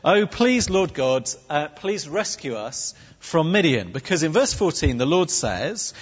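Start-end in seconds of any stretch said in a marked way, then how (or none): 0.0-3.9 mildly pleading mock prayer. Gideon begging God for rescue, as a prayer. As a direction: open on a raised, imploring "Oh, please". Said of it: "as if it had been a prayer".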